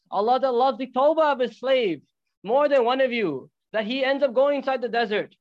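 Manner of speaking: urgent, exhorting preacher telling a parable; impassioned preaching. Real, not acted.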